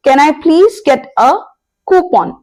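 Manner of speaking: slow example rising to a high coupon; careful English demo question; slow model question. Shown as a demonstration. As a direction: ask it slowly, lifting at the end. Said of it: "तो अगली बार आप बोलेंगे".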